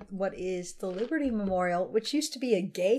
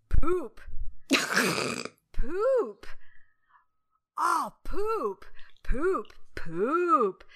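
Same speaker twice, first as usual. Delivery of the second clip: put-on child swearing; 5 semitones higher, much slower than usual. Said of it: "picture the one scene".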